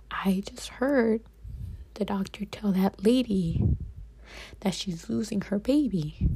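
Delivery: hushed, breathy whisper, slowed at the start; retold whisper. Crying patient whispering to the nurses behind the curtain, hushed. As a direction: whisper it so the neighbour can't hear. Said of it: "I'm trying to whisper".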